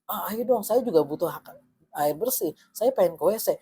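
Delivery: imitated appeal for fairness; acted pleading. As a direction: lightly plead as the squeezed-out homeowner. Acted plea for basic rights.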